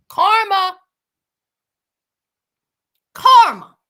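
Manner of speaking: loud, gloating Karma. Real, not acted. Gloating as Daniel drops his food. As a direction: relish his bad luck. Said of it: "gloating karma".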